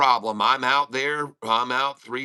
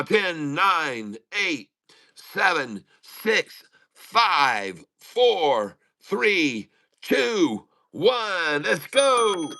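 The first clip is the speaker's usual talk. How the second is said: excited countdown; 4 semitones higher, much slower than usual. Real, not acted. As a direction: count down to the bell, rising with each number, then burst out on let's go. Market open countdown.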